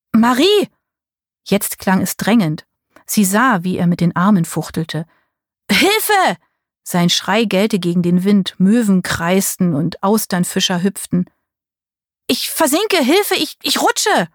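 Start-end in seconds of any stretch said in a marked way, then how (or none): 0.1-0.7 calling out. A narrator's reading. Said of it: "Er rief". 5.7-6.4 high panicked cry; shouting for help. A narrator's reading. Paul cries for help. 12.3-14.3 high, frightened pleading; panicked. A narrator's reading. Paul sinking in quicksand.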